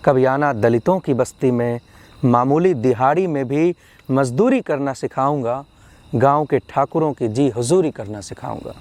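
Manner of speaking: measured verse with a lifted refrain; deliberate, rhythmic poetry reading; poem recitation. Acted. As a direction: recite a protest poem phrase by phrase. Recites poem with repeated invitation.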